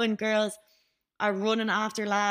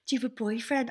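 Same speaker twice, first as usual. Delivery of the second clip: lightly raised voice, imitating him; high-pitched admirer; 3 semitones higher, faster than usual. Gym member asking staff out, lightly imitated high voice. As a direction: mimic his high-pitched question. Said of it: "that's how he talked".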